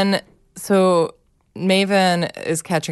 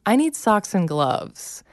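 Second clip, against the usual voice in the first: slow, higher insistent demand; mildly mocking child's demand, drawn out; imitated stubborn child; 4 semitones higher, slower than usual. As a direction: dig in like a stubborn kid. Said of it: "she dug in her heels so much".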